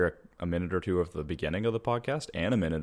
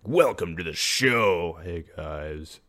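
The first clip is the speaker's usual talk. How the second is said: slow, drained greeting; mock hungover show intro; 6 dB louder, much slower than usual. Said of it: "It's like".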